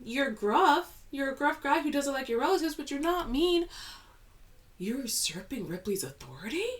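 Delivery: very high, loud shrieking disbelief at the screen; retold fan outrage. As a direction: yell at the screen like a betrayed fan. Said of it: "I was like".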